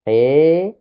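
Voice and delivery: "he" with a clear breathy h before the vowel; aspirated he. Shown as a demonstration. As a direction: breathe out an audible h, then "e". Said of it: "on prononce bien le he".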